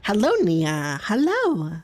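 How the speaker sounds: put-on rising high-pitched kid's hello; mimicking a four-year-old's hello; kid voice imitation. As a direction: chirp it like a little kid.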